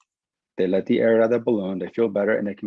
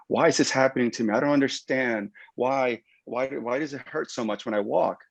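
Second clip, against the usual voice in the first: higher mock whine; complaining patient; 4 semitones higher than usual. Ankle patient asking the clinician why it hurts, mock whiny. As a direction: play the puzzled patient, pitched up.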